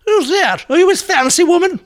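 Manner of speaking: put-on very high, loud tipsy old lady voice; Jenny Fulborough voice. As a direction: trill like a dotty dame after a few sherries. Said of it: "I'd say".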